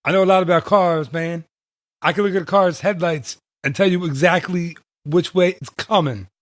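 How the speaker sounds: lightly voiced stand-up impression, pitched a bit up; Mitch Hedberg. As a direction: make a rough try at the comic's voice. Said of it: "it's a bad Mitch Hedberg accent".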